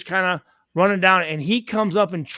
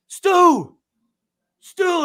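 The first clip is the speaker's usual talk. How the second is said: higher, louder call across the field; 10 semitones higher, 6 dB louder than usual. Retold or imitated. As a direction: yell his name from a distance. Teammate calling out across field.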